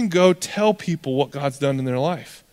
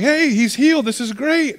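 high-pitched excited cheer; imagined joyful reaction, pitched well up; mock delight; 9 semitones higher than usual. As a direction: act out a thrilled onlooker, voice jumping up. Imagined crowd rejoicing at healing.

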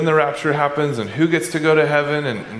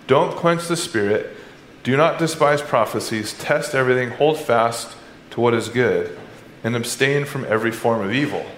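scripture reading; 3 semitones lower than usual. Acted. Reads scripture aloud.

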